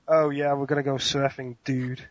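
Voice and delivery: mock American surfer dude; American accent. Guest offers an easier phrase, American surfer accent. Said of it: "give me something like".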